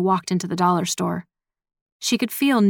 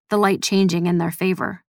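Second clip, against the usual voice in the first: usual speaking voice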